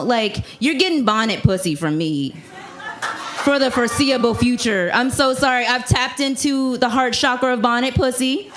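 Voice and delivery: ordinary talk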